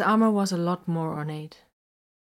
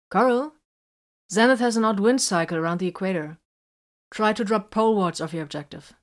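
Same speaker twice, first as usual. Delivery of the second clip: raised voice calling someone back; calling after; 2 semitones higher, 4 dB louder than usual. Acted. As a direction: call it after someone walking off. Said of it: "called after him".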